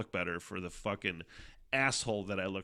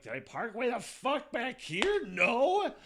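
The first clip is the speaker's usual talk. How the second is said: asking himself in disbelief, pitched way up; retold confused self-question; 13 semitones higher, slower than usual. Hunting for his car in the lot, high and bewildered. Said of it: "I'm like".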